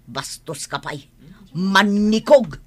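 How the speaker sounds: loud, sharp scolding of a rude man; furious mother scolding; angry scolding. Acted. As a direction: tell him off hard.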